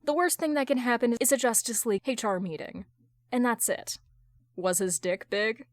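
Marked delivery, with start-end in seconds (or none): 4.5-5.7 deadpan. Acted. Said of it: "Carol deadpans".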